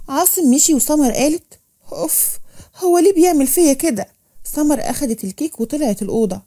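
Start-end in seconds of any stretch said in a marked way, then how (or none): 1.9-4.1 mild exasperation, higher pitched; raised-pitch, put-upon grumble; exasperated huff. Acted. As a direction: huff and complain to yourself. Wife huffs alone after quarrel.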